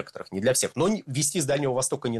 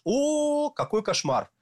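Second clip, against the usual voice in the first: mock alarmed public; 4 semitones higher than usual. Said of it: "люди скажут".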